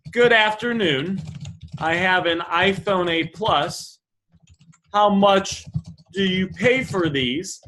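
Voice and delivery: slow, measured polite customer; polite pleasantries. Acted. Customer politely asking a buyer for a price, slow and courteous. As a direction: spell out a courteous inquiry slowly. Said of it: "mirror the type of tone".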